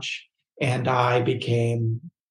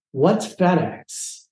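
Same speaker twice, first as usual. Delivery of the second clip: drawn-out, higher baffled question; 5 semitones higher, much slower than usual. Retold or imitated. Baffled client asking the agent about FedEx, puzzled.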